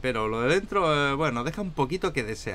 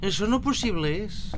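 higher, slower odd-creature voice; put-on character voice; 7 semitones higher than usual. Joking about the snow in a higher, slower put-on creature voice. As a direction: twist the line into a funny little creature voice.

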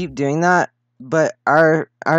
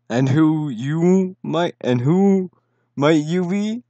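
put-on heroic young voice; 2 semitones higher, slower than usual. Voicing hero NPC.

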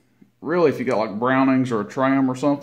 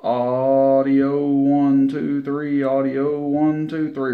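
counting off into a keyed CB mic; slow, drawn-out audio count for the meter; radio mic check; 2 semitones higher, much slower than usual. Real, not acted. Keying mic into the amp.

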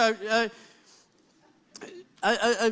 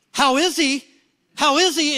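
mock-panicked echo of a question, a bit louder; panicking; 2 semitones higher, 4 dB louder than usual. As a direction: imitate someone starting to panic. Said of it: "And he starts panicking".

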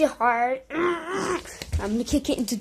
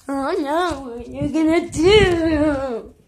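slow, louder, whiny wail; mock crying taunt; 7 dB louder, slower than usual. Louder drawn-out mock cry.

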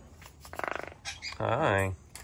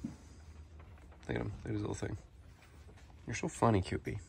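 whisper; 11 dB quieter than usual. Real, not acted. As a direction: whisper so the bird stays calm. Quietly watching the bird.

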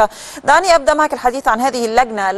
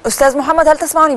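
raised voice, higher, calling a name; 6 semitones higher, faster than usual. Real, not acted. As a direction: call out to a faint listener. Calling guest over bad connection.

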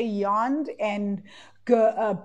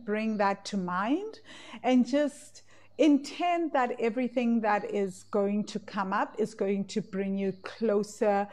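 guided meditation. Acted. Closing meditation guidance.

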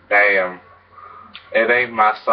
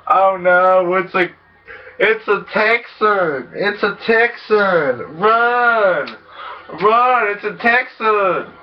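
high-pitched panicked cry of Texan; mock panic; 8 semitones higher, slower than usual. Gamer yelping at a Texan pedestrian, mock panic. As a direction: squeal in mock terror to run.

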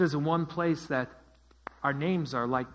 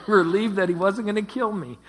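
laughing answer; 5 semitones higher, 8 dB louder than usual. Real, not acted. Listener answers the pastor, laughing.

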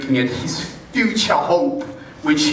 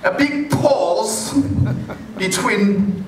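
"a big pause" drawn out slowly, higher; slow stretched pause; 4 semitones higher, much slower than usual. Shown as a demonstration. Preacher slowly stretches "a big pause" while laughing. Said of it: "able to leave".

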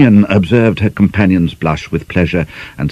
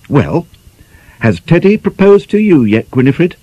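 lightly voiced cheeky nineteen-year-old, higher; sly schoolgirl teasing her friend; teasing young girl; 11 semitones higher, 3 dB louder than usual.

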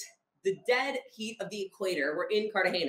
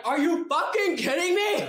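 higher, louder, laughing outrage; laughing disbelief; 9 semitones higher, 5 dB louder than usual. Retold or imitated. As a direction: blurt it out through a laugh. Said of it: "And Sasha's like".

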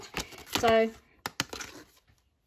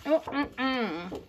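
yummy mm; 2 semitones higher than usual. Real, not acted. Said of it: "I sound like I'm gonna eat my paper".

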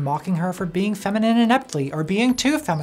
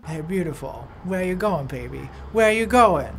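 catcalling harasser; 3 dB louder than usual. Retold or imitated. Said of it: "street harassers".

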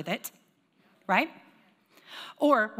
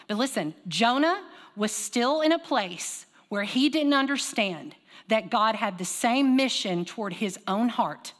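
slow emphasis; slower than usual. Shown as a demonstration. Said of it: "I'm gonna say it again".

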